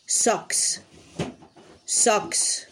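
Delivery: socks whispered crisply for copying; whispered model word. Shown as a demonstration. Teacher whispers socks to children as a model. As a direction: whisper socks for the kids to repeat. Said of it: "se dice socks".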